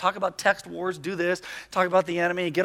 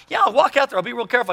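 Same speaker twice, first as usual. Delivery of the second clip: imitated daughter; 5 semitones higher, faster than usual. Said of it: "and my daughter goes".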